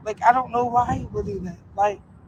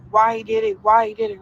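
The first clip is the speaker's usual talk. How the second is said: exasperated demand; 10 semitones higher, 4 dB louder than usual. Retold or imitated. Retelling pressing him about it.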